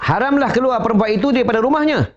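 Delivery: high, declaiming recitation; lightly intoned scholarly reading; formal ruling. Acted. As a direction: announce the ruling like reading from a kitab. Quoting a legal ruling.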